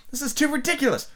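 high exasperated cry. A narrator's reading. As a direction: cry it out, out of patience. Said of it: "Alice cried".

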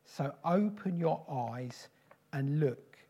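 a declaring prophetic voice, speaking as God to the church; prophetic preaching. Acted. Preacher speaking for God to the church, prophetic declaration. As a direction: proclaim it as God calling his people to the harvest.

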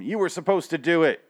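high-pitched impression of a TV character; Morgan. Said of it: "that's Morgan".

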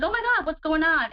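retold panic. Retelling a dog lunging at hers, mild panicked outcry. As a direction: relive the shock of a dog attacking hers, lightly. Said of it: "And I panicked again".

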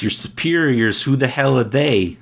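put-on tough New York accent, lightly done; gruff Noo Yawk tough guy. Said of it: "That's my New York accent".

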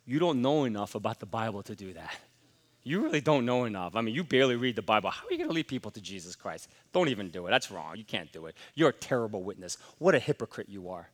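a hint of a sly accuser; Satan's accusing voice. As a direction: murmur the lies like the devil at your ear. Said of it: "He'll tell you is this".

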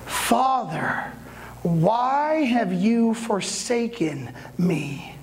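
long drawn-out cry, no real shout; mild retold cry. Jesus to his Father on the cross, mild drawn-out cry. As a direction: stretch out the anguished plea, volume held back. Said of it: "then he yells out".

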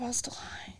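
slipping into a near-whisper; very soft, drawn-back delivery; hushed confession. Real, not acted. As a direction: confide it under your breath. Hushed confession amid whispering bit.

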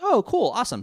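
high, loud delighted outburst; hammed-up cheer; mock excitement. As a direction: gush like kids seeing daylight. Friends see daylight, acted quote.

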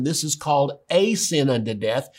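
"a" said as a stressed "ay". Shown as a demonstration. Preacher driving the point home to listeners, stressing "a". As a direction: lean on "a" before sin. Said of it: "It's called a sin unto death".

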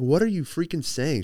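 half-annoyed disbelief at the goat milk; getting mad. Retold or imitated. Girlfriend mildly annoyed at the odd latte offer. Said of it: "She was starting to get mad".

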